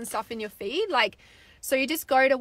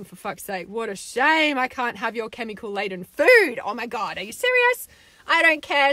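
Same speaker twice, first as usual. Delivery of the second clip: sarcastic angry rant; 5 dB louder than usual. Acted. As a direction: sneer "oh what a shame" as if daring them. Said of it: "it fucking makes me so angry".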